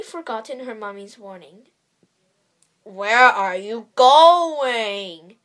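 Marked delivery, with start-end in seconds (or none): 2.8-5.4 growling wolf. A narrator's reading. Wolf asks the girl where she goes, growling slowly. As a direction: draw the question out like a hungry wolf. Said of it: "growled the wolf".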